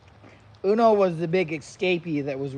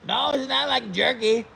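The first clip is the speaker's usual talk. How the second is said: emphatic correction; 7 semitones higher, 6 dB louder than usual. Real, not acted.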